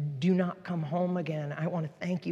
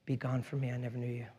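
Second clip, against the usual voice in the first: stern God; 5 semitones lower, 8 dB quieter, faster than usual. Retold or imitated. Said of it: "he's gonna be like".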